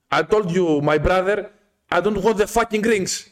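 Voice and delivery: acting out losing patience, slowing at the end; exasperated refusal. Customer refusing the ring seller, exasperated.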